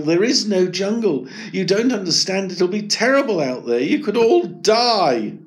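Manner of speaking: anxious plea. Acted. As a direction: beg them to understand. Eric pleading inside.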